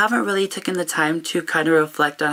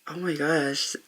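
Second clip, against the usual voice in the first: choked-up whisper; 7 dB quieter than usual. Real, not acted. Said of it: "I'm sorry if I'm emotional".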